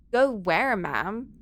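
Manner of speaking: lightly voiced Valley Girl 911 operator; a hint of a bubbly Valley Girl dispatcher. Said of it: "the Valley Girl nine one one operator".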